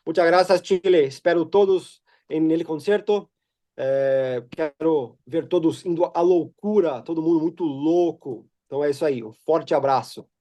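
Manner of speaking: Brazilian speaking Spanish-Portuguese mix; Portuñol. Real, not acted. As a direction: greet Chilean fans in Portuñol. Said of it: "can I speak in Portuñol?".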